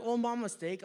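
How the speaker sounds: put-on British accent. Joker corrected by the drive-thru worker, British accent. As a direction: apologize in a mock British accent. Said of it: "hear me do a British accent".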